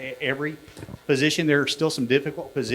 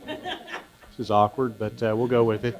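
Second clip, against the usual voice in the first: laughing. Real, not acted. Laughs while speaking into shirt.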